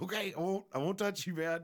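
high, meek imitation of himself backing off; high-pitched mock apology to his wife; mock timid reply. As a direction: raise the voice and back off sheepishly. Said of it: "I'm like".

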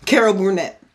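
loud burst of remembering the name; triumphant recall. Real, not acted. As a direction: blurt it out, finally got it. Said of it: "There we go".

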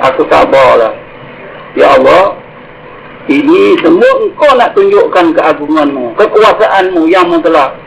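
low, slow prayer to God; husband's hushed-pitch, accepting prayer; patient submission. Acted.

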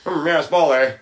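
lightly voiced stately hero; a hint of a pompous old-time hero; old-timey hero voice. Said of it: "they all talk like this".

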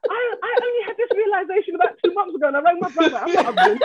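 high, laughing and half crying; breaking into real giggles mid-thought. Real, not acted. Laughing at her own realisation.

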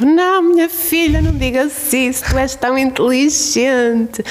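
high, drawn-out mock crying of a grandmother; imitated tearful wail. Grandmother consoling her self-deprecating granddaughter, mock tearful wail. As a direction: plead in a high, slowed, hammed-up sob. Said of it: "E a minha avó chorava".

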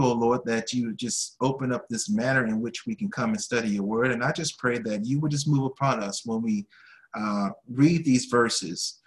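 prayer. Acted. Closing prayer of Bible study.

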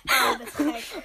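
high loud slow laughter; laughing. Real, not acted. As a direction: crack up laughing. Laughing fit.

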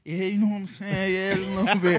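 bashful laughing reply. Retold or imitated. His own bashful reply, retold.

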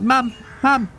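put-on very high, brave-faced little boy shouting; a nervous kid puffing himself up against strangers; scrappy farm boy. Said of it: "He's like".

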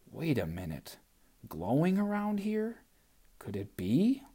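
sly doll voice, rising in surprise; Gum Baby voice. Acted. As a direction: let the doll catch on slyly.

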